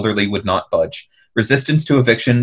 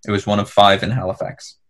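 usual speaking voice

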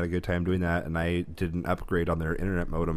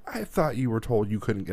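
booming voice; 4 semitones higher than usual. Retold or imitated. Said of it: "this really loud, booming voice".

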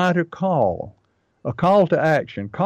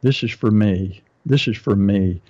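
lower, murmured inner voice sinking deeper each time; 5 semitones lower than usual. Pretend. Reader's subconscious mind deciding on the website, sinking lower. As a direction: let the reader's mind repeat it to itself, dropping lower. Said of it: "is saying".

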